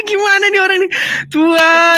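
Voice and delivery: high-pitched exasperated outcry; real, high-voiced exasperation. Real, not acted. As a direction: throw it out high, at wits' end. Exasperated with the other debater.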